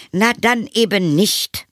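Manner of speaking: high, slow huffy mother; offended. A narrator's reading. Mother rebuffed by vampire, offended. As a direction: toss it off in a huff. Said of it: "sagte die Mutter beleidigt".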